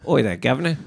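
mock English accent. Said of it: "I can't do an English accent".

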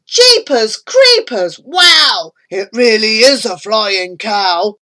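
loud amazed crowd shout; cheering onlookers. Acted. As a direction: shout it out in wonder. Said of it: "They shouted".

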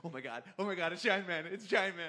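rising squeal of fan delight; screaming crying fan. Retold or imitated. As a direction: build from a gasp to a squeal. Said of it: "And I just went".

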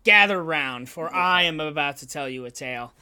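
put-on slow storyteller gathering children round; slow wise elder. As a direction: tell it like an old sage by the fire. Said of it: "I will close this down".

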